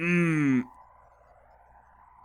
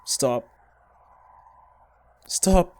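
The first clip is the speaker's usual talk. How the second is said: panicked stop; slower than usual. Real, not acted. Player shouting at the game to stop, in real panic.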